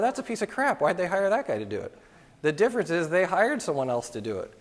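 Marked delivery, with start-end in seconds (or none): 0.0-2.0 mock scorn.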